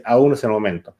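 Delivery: low, measured voice urging delay; inner voice of fear. Acted. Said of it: "Esa voz que te dice".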